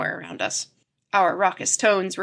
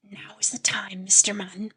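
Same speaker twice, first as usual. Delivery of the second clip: whisper. A narrator's reading. Professor waking the narrator at night, whispering. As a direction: whisper so nobody wakes. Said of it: "whispered the professor".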